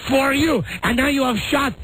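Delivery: high French wife voice; outraged French lady, hammed up; French accent.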